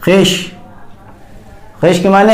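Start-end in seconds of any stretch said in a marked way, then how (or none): 0.0-0.5 खिश said as khish, the vav dropped; silent vav reading. Shown as a demonstration. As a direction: read खिश without any v sound. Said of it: "कैसे पढ़ते हैं इसे". (खिश को बिना व की आवाज़ के पढ़ें)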